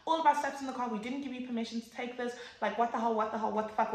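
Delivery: a mild mock yell at the police; half-shouted, indignant complaining; retold screaming. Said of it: "We're screaming".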